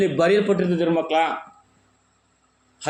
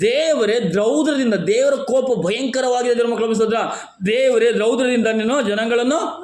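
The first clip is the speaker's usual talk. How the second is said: fervent proclamation; 5 semitones higher than usual. Acted. Preacher proclaims verse on God's wrath. (ಆವೇಶಭರಿತ ಘೋಷಣೆ)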